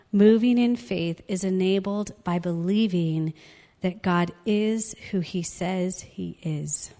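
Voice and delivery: "God is who he says he is" slowed word by word; slow emphatic repeat. Real, not acted. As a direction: spell out the lesson slowly, ending on spaced "he is". Key lesson repeated for emphasis.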